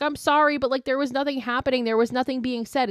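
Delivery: mocking, high-voiced quote; mock apology. Retelling Gemma's excuse after faking it.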